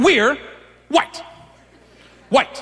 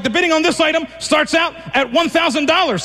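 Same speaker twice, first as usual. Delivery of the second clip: auctioneer voice; 5 semitones higher than usual. Retold or imitated. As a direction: announce it like an auctioneer. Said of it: "I was like".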